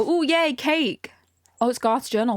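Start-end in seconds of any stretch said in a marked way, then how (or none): 0.0-1.1 high, cooing little cheer; a hint of childlike glee; mock delight.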